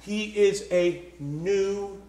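deliberate, low reading with long pauses; measured pulpit reading; slow scripture reading. Real, not acted. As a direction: read the verse word by word, weighing each. Reads scripture slowly, with emphasis.

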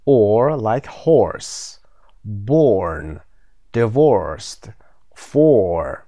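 each word said alone, slowly, with a clear or sound; model pronunciation. Shown as a demonstration.

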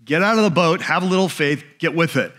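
mock impatient prodding; brisk, mildly bossy imitation; pushy. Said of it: "the enemy's voice pushes".

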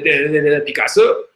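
hammed-up French accent; mock French accent. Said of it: "say it in French".

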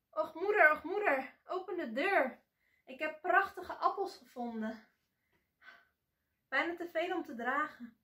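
high and loud, bursting with joy; excited shout. A narrator's reading. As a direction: call out the good news to mother. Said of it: "ze schreeuwde uitgelaten". (uitgelaten roepend, hoog en luid)

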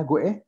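"güe" con sonido gw; U con diéresis. Shown as a demonstration. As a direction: hacer sonar la u de "güe". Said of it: "como si la U llevara diéresis". ("güe" con la u pronunciada)

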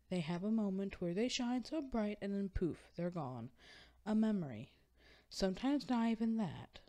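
earnest, lilting recital with lively rises and falls; dramatic monologue reading. Acted. Reading a friend's monologue on wishing stars, earnest theatrical recital. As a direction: perform it like a wistful stage monologue.

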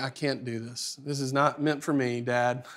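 a son giving up in shame, voice sinking; ashamed. Retold or imitated. Boy tells dad he can't, ashamed and quiet. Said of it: "I feel ashamed".

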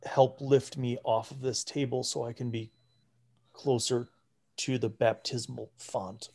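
put-on soft, weary old priest asking for help; a hint of a bedridden cleric, quiet and tired; hushed frail request. Frail priest asks the party to lift him, hushed and weary.

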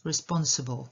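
"Responsible" with a strong SPON, weak schwa after; second-syllable stress. Shown as a demonstration. Teacher showing learners "Responsible", stressed on the second syllable. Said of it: "I akcent na drugą".

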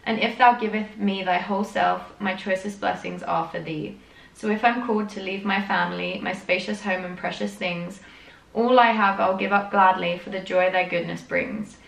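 poem read with solemn earnest lilt; earnest recital of a devotional poem; reading a poem aloud. Acted. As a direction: read it like a hymn verse. Reads a hymn-like poem.

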